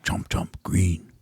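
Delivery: slow, whispered caveman grunting; breathy dim caveman chewing; caveman impression. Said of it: "Here's my impression of you".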